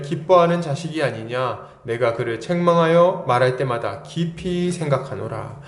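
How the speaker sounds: measured, solemn Bible reading; scripture reading. Acted. Reads scripture aloud to congregation.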